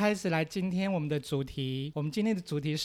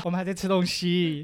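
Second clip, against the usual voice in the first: talking between bites; eating while talking. Real, not acted. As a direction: mouth half full of food. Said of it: "所以等一下有那个咀嚼声哦".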